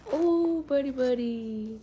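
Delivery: slow, drawn-out coo. Real, not acted. Mother cuddles her little boy, slow tender coo. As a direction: coo it slowly to a little one.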